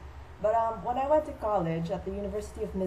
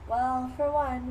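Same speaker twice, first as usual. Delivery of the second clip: put-on slow, higher dreamy girl voice; dotty sister; 4 semitones higher, slower than usual. Sister comparing herself to Laura, slow and dreamy. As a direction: draw it out like a mock spacey girl. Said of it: "Now my sister to talk about".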